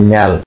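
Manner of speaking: ন্যাল with a front vowel, like 'nel'; ন্যাল, the aldehyde ending; pronounced ন্যাল. Shown as a demonstration. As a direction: say ন্যাল as one short syllable, 'nyal'. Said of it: "উচ্চারণ হবে কি".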